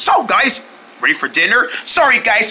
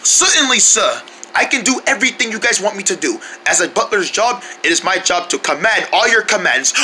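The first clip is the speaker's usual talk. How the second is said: put-on British accent. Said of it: "British accent".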